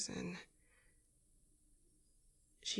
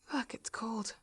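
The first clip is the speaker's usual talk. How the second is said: cold whisper; 2 semitones higher, 4 dB quieter than usual. Acted. Freezing, hurt, near tears.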